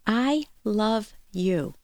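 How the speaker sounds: each word weighed, very slowly; slow deliberate. Shown as a demonstration. Host savors the phrase for her listeners, slowly. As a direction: let every word land. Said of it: "Three simple words".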